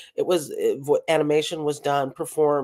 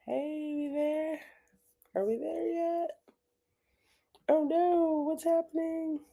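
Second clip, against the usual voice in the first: calling out; 12 semitones higher, 8 dB quieter than usual. Real, not acted. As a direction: call out worriedly to a frozen stream. Call into dropped video call.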